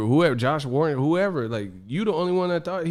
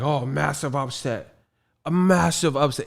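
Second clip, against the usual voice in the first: lightly put-on British accent; a hint of exaggerated British vowels; mock British fan; 3 dB quieter than usual. Mocking British fans' catchphrase, light British accent. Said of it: "these British teeth, they be like".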